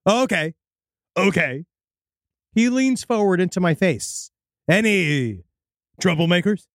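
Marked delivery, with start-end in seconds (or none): 0.1-1.7 lightly voiced odd stranger; weird stilted stranger. Odd candidate answering a store clerk, mildly stilted. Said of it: "speaks like he's never spoken before". 4.7-6.7 a hint of odd, halting speech; weird stilted stranger. Odd candidate leaning into the clerk's face, lightly stilted. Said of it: "in a weird accent".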